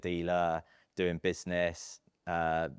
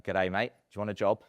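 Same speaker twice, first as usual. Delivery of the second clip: put-on Australian accent; 3 semitones higher, 5 dB louder than usual. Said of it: "I apologise, Sam, for the accent".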